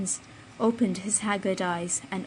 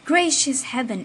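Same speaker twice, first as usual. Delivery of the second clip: startled cry of alarm; higher, louder exclamation; exclaiming; 4 semitones higher, 6 dB louder than usual. A narrator's reading. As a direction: gasp it out in alarm. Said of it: "exclaimed he".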